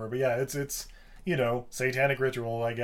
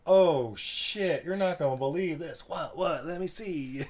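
excited guys; 4 semitones higher, slower than usual. Retold or imitated. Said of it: "they're like".

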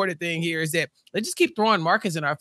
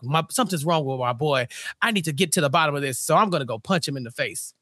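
mock concerned dad; 6 semitones lower than usual. Dad voiced, lower.

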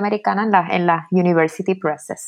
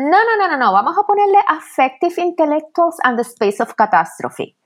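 quoting the editors; 8 semitones higher than usual. Retold or imitated. Editors quoted rejecting her title.

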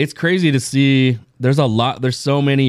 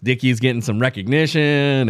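retold excited cheer; 3 semitones higher than usual. Retelling his delighted fan reaction.

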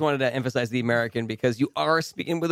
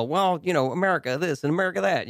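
rough attempt at a Southern redneck accent, quicker; 4 semitones higher than usual. Radio host imitates the redneck accent, badly, in quick Southern twang. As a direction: toss off a mock white-trash Southern accent. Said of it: "the southern redneck".

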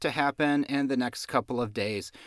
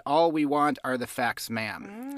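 actual Dragnet line; slower than usual. Retold or imitated. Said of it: "He actually said".

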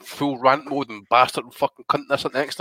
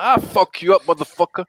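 mock Canelo accent; 4 semitones higher, 4 dB louder than usual. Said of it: "Spanish speakers ... riled up".

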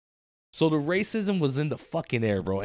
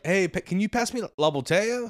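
mock Spanglish; 4 semitones higher than usual. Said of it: "He's more like".

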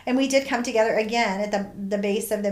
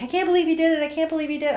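higher, amazed greeting; excited disbelief; 8 semitones higher, much faster than usual. Retold or imitated. Friends greeting the hikers at the bottom, higher and amazed. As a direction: gush with amazed joy. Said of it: "they were like".

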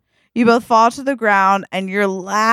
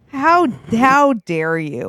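mock offence; 2 semitones higher, slower than usual. Acted offence at being hoisted.

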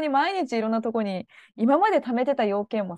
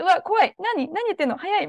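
higher, louder mock panic at fast English; a touch of hammed-up fright; mock panicked self; 8 semitones higher, 3 dB louder than usual. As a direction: play her old flustered self. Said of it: "やっぱ前の私だったら".

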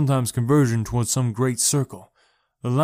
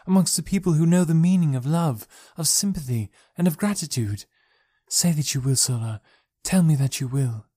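a higher, earnest princess voice begging a friend; pleading princess; 4 semitones higher than usual. Acted. Princess begging Sola to flee with them, pleading. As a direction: plead with her to come along.

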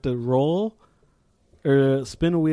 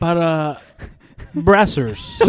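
Spanish pronunciation; 2 semitones higher, 5 dB louder, much slower than usual. Retold or imitated. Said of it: "saying everything in Spanish".

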